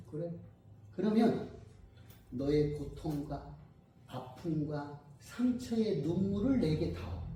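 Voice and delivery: slow, soft request with pauses; slow down and ask softly; quoted Jesus. Retold or imitated. Jesus asking for a person's pain, slow and soft. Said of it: "예수님께서 말씀하셔요".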